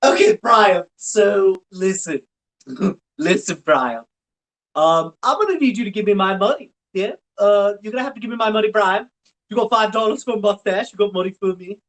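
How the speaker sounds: high, mock-menacing cartoon hustler voice; a thug squeaking out his demands; Suey Griffin voice. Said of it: "you do an amazing Suey Griffin".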